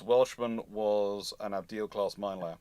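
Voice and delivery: normal talking voice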